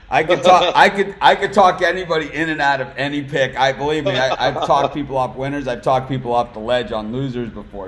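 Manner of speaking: loud, high boastful laughing brag; excited bragging. Real, not acted. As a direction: crow about it to the panel. Host bragging about talking people into picks.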